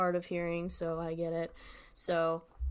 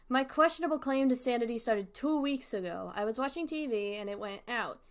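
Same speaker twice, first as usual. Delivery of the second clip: steady, lightly voiced horror reading; story narration. A narrator's reading. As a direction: read the diary entry to the audience. Reads the story aloud.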